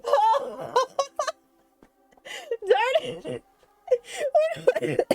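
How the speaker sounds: high, breathless crying laughter; helpless giggling fit, gasping oh's; laughing to tears. Real, not acted. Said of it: "Oh, I'm crying".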